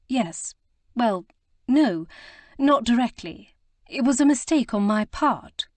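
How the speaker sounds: a hint of nervous Prudence, hurrying her excuses; flustered young lady. A narrator's reading. Prudence flustered, narrator voices her.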